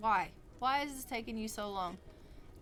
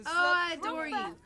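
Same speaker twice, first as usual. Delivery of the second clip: mock adoring; 5 semitones higher, 6 dB louder than usual. Voices Sim's loving reply.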